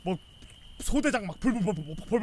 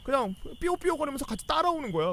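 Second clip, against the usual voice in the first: normal talking voice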